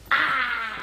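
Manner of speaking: quick mock battle cry; mimicked yell. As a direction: act out someone caught mid-yell. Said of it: "the best bitch face you've ever done".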